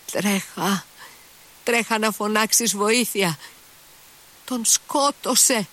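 a wounded servant forcing out the alarm, rising; weak wounded voice. A narrator's reading. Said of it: "της έλεγε με αδύνατη φωνή".

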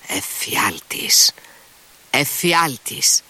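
slow breathy whisper of disgust; ψίθυρος φρίκης, αργά; horrified whisper. A narrator's reading. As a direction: hiss the word slowly, appalled. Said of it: "ξεφώνησε ο διοικητής".

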